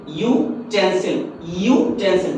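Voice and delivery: यूटेंसिल drawn out slowly, clear "yoo" at the start; sounding out the word. Shown as a demonstration. Teacher sounding out utensil for students, slow. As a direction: pull यूटेंसिल out slowly to show its "yoo" opening. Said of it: "यू की आवाज आ रही है".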